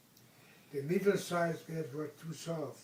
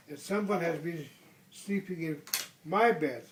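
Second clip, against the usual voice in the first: Mama Bear's voice; 6 dB louder than usual. Acted. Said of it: "said Mama Bear".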